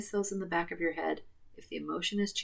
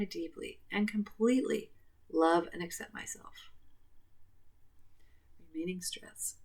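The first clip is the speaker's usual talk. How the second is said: whisper; 3 dB quieter than usual. Acted. Whispered affirmation and reminder.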